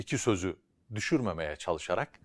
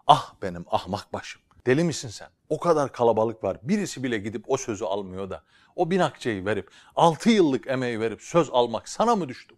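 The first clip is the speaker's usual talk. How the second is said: self-scolding; 3 semitones higher, 7 dB louder than usual. Acted. Scolding himself aloud.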